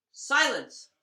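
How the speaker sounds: loud, high-pitched shout; the Tsar thunders for silence; thundering command. Acted. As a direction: bellow it at the crows. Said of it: "thundered the Tsar".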